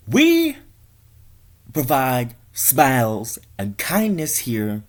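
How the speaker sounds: high, slow sanctimonious boss. Acted. Boss lecturing the cashier, slow pompous voice. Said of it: "he says to the cashier".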